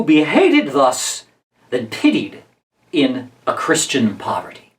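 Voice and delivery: measured recitation, slowing towards the close; dramatic verse reading. Acted. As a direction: perform the speech as stage verse, with weighty pauses. Reads Barabbas's speech aloud.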